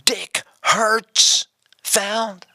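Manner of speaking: "Hertzfeld" stretched very slowly, high, weighted on Hertz; "Hertzfeld" as a high, slow roll call, Feld smaller; big Hertz, small Feld. Retold or imitated. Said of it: "it's a big Hertz and it's a small Feld".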